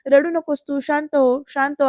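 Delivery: quietly calm someone who is crying; gentle consoling. Retold or imitated. Naik-bai consoling crying Jayanti, soft mild reassurance. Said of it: "असं म्हणत समजवतात".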